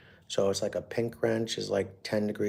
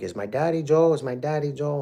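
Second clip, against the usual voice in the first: lightly voiced small child, higher; a young girl asking eagerly, a bit higher pitched; little daughter asking; 7 semitones higher, 5 dB louder than usual. Little daughter asking about dad.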